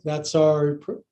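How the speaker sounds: barely able to speak in a twist; strained, compressed breath; squeezed voice. Real, not acted. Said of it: "Can barely speak".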